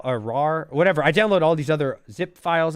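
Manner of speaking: usual speaking voice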